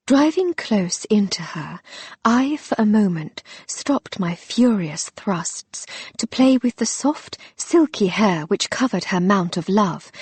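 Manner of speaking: hushed, breathy-edged read of a naughty passage; seductive reading. Acted. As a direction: read it as a teasing seduction, starting in a whisper. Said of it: "Using her most seductive voice".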